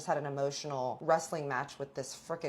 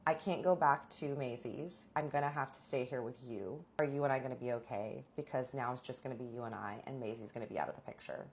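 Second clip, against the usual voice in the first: vulnerable; 3 semitones lower, 6 dB quieter than usual. Retold or imitated. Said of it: "he was very vulnerable".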